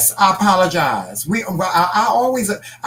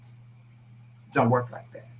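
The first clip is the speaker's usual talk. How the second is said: slow quiet; 6 semitones lower, 9 dB quieter, much slower than usual. Retold or imitated. Repeated slower, quieter.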